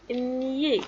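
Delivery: "nié" as one syllable, n gliding into yé; teacher modelling "nié"; prononciation démontrée. Shown as a demonstration. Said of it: "ça se prononce". (« nié » articulé pour les élèves)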